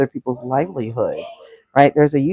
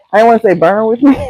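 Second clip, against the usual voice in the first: laughing; 6 semitones higher, 4 dB louder, faster than usual. Real, not acted. Laughing at own cooking.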